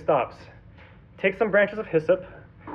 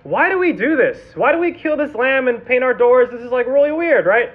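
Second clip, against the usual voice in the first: put-on higher, puzzled child's question; lightly voiced kid, higher and louder; child asking; 5 semitones higher, 3 dB louder than usual. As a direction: voice a curious kid asking why. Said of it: "The children would ask their fathers".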